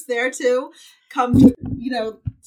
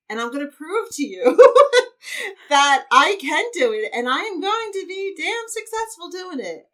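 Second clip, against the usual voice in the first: emphatic, raised defiant declaration; 8 semitones higher, 8 dB louder than usual. Acted. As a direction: stand up to your inner bully, laughing through it. Acting out defiance to inner critic.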